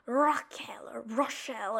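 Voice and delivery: whispered French-style names Raquel and Rochelle. Retold or imitated. Telling viewers the sister's French names, whispered. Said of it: "Rachel gets, like".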